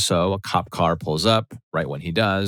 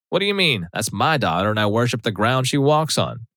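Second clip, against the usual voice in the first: higher, offended Southern mom voice; indignant mom; 4 semitones higher than usual. Retold or imitated. Mom protesting to daughter's boyfriend in a higher offended voice. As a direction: clutch pearls and protest.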